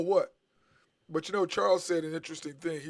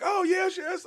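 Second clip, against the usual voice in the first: mock cheering; 13 semitones higher, slower than usual. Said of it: "they were like".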